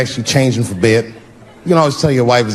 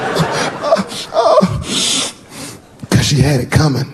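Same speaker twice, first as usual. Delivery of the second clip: put-on gangster kid; 2 semitones higher, slower than usual. Son explaining the punch, mock gangster cool. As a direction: play a tiny tough guy. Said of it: "his answer was so gangster".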